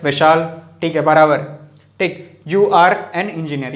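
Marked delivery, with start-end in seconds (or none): 2.5-3.7 slow, clear model sentence; slow model answer. Shown as a demonstration. Teacher confirming the correct answer slowly. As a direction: spell the answer out for the class. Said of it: "ये वाला सही है".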